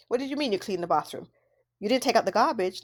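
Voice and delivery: quick, faultfinding parental tone; critical nagging. Shown as a demonstration. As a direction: nitpick the kid. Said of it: "Versus the second way".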